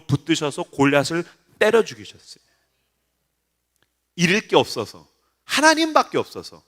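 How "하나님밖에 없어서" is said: rousing sermon blessing, building to the end; preacher rallying the congregation; preaching blessing. Real, not acted. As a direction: build into a forceful benediction.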